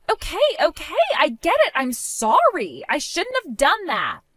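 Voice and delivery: lightly voiced catty sister, half-hearted apology; placating sister-in-law. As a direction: grovel just enough to smooth it over.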